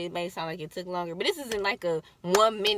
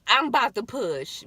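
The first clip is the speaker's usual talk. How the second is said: yell; 3 semitones higher, 6 dB louder than usual. Retold or imitated. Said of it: "I yell out".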